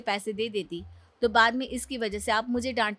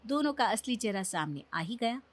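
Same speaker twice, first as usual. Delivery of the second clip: story narration. A narrator's reading. Narrator letting viewers in on the test, storyteller. Narrator describes mother-in-law.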